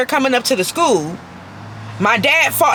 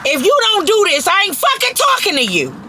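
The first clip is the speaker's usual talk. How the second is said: catchphrase; 6 semitones higher than usual. Real, not acted. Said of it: "my favorite line".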